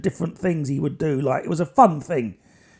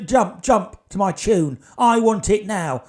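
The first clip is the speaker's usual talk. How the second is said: nasty demand; slower than usual. Retold or imitated. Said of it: "really nasty she got".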